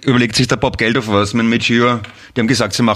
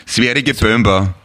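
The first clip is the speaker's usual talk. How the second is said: mock Swedish accent; slower than usual. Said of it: "So vielleicht".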